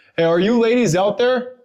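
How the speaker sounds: very high, loud call. Searching an empty spot, calling to anyone there, raised voice calling out. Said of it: "I'm about to raise my voice".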